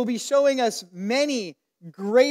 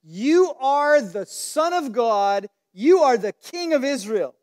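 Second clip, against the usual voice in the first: slow, louder proclamation of faith; awed declaration; 4 dB louder than usual. Retold or imitated. Nathanael answering Jesus, in a slow louder proclamation. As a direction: declare it slowly, a little loud, full of wonder. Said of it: "That's all it took for him to reply".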